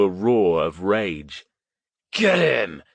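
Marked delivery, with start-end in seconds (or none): 2.1-2.8 high, loud yell; rally the others to charge. A narrator's reading. Drunk urges his friends to attack, loud yell. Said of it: "he yelled".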